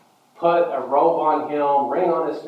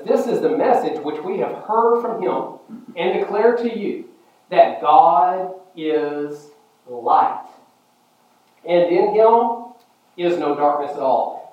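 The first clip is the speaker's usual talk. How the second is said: scripture proclamation; 5 semitones higher, 5 dB louder, slower than usual. Acted. Quotes scripture to congregation.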